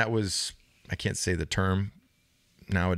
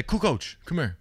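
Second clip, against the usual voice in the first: Joey calling out; 8 semitones higher than usual. Retold or imitated. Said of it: "He'd say".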